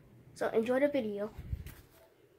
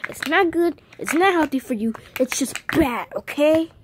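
scolding; 2 semitones higher, 4 dB louder than usual. Pretend. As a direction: scold the toy firmly. Scolding, then "don't get all mad.

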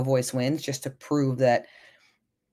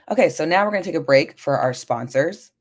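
louder, bright announcer voice for a fake ad break; mock sponsor break; 2 semitones higher, 5 dB louder than usual. Podcast host jokingly pretending to cut to sponsors, mock announcer voice. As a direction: play it like a host cutting to a sponsor, tongue in cheek. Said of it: "Just kidding".

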